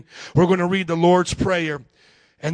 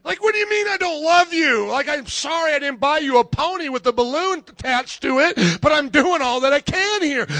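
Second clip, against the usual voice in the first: exasperated self-defence; 5 semitones higher than usual. Retold or imitated. Acted exasperated defence to guest.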